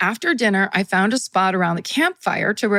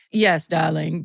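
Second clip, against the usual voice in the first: put-on half-hearted British accent, pitched lower; low, loose stab at a British accent; attempted British accent; 4 semitones lower, slower than usual. A rock musician replying by the campfire, half-hearted British accent. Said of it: "not doing a British accent correctly at all".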